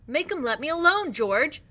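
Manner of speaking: high, loud, pleading wail; terrified cry. A narrator's reading. Lenny begging George as Curly hits him, high and afraid. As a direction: beg loudly to be rescued. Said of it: "he cried".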